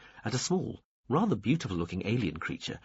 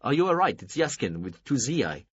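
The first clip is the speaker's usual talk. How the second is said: shouting; 4 semitones higher, 4 dB louder than usual. A narrator's reading. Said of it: "Yaskin shouted from beyond the doors".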